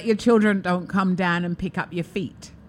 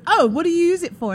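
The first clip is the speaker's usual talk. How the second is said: put-on little girl voice; 10 semitones higher, 4 dB louder, faster than usual. Child asking about toy.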